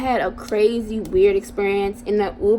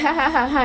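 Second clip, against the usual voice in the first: imitated laugh; 4 semitones higher than usual. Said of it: "Let me show y'all how he was laughing".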